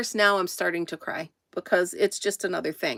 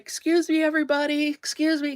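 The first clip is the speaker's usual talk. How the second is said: high, raised call for attention; calling out to a room; 7 semitones higher than usual. Retold or imitated. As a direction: call out over the whole shop to get their attention. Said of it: "I'm the shy, quiet type".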